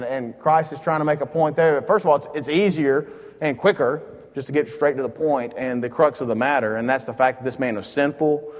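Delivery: usual speaking voice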